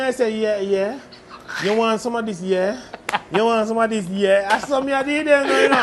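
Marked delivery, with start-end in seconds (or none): 0.3-4.5 lightly put-on English accent in a Jamaican voice; a touch of English accent, playfully tagging on "yeah". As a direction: slip into a bit of mock English. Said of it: "You put your English accent".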